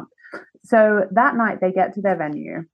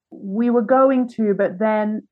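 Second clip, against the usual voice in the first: slow, hesitant excuse that peters out; trailing off; slower than usual. Retold or imitated. Friend dodging questions about last night, trailing off. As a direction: let the sentence stall unfinished. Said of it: "and then just kind of fades out".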